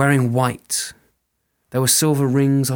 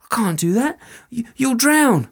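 much higher, louder, fast panicked pleading; panicked soldier; 12 semitones higher, 4 dB louder than usual. Acted. Soldier pleads with the fairy woman, frantic and high. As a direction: babble out excuses in fear.

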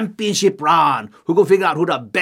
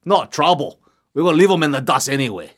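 arrogant chief; 4 semitones lower than usual. Acted. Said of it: "oh, he's so arrogant".

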